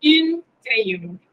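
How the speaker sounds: "Un crayon" with a nasal "un". Shown as a demonstration. Teacher models the nasal vowel for the class. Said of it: "Sonido nasal".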